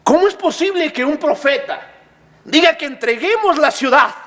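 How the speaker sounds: high, incredulous acted protest; outraged accusation. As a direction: accuse the prophet of treason. People accusing Jeremiah of treason.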